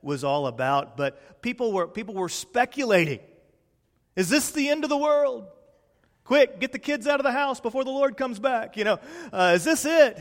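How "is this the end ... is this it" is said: higher, hammed-up end-of-the-world fear; mock panic. Preacher mimics panicked neighbours, mock alarm. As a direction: play the frantic Facebook crowd.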